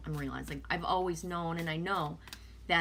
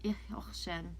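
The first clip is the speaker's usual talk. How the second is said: whisper; 6 dB quieter than usual. Real, not acted. Vlogger whispering the German word to check it. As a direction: whisper Ich horchen to yourself.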